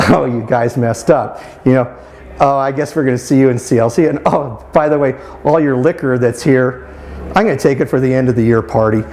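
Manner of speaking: a lightly imitated calm, easygoing telling-off. Judge to kids caught partying in the dorm, lightly imitated calm voice. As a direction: mimic Judge going easy on the busted kids, barely shifting the voice. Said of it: "in a very calm voice".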